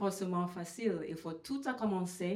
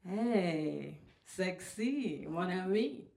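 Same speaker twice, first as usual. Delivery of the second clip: catcalling men; much slower than usual. Retold or imitated. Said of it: "tous les hommes dans les rues vont donner les compliments".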